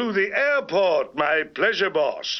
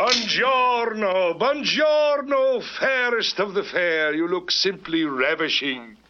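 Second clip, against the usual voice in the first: purring latin lover. Acted. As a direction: lay the charm on thick, Italian style. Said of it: "Hello, Latin lover".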